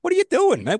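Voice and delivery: high, loud, baffled shout; hammed-up cry of what are you doing; mock outraged yell. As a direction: yell it like someone shoved a phone in your face. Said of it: "I'm like".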